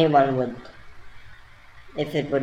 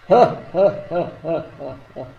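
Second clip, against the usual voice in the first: big Buddha laugh; 2 semitones higher than usual. Retold or imitated. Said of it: "big Buddha laughter".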